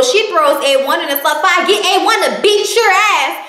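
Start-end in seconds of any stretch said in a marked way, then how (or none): 1.7-3.4 high mocking voice. Lyrica threatening, quoted.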